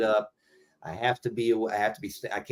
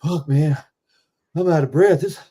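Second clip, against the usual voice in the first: higher, louder complaint; complaining; 6 semitones higher, 5 dB louder than usual. Retold or imitated. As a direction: whine about the heat, loudly. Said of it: "I remember one time going".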